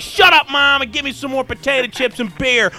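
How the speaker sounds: put-on bratty teen yell. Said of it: "You say".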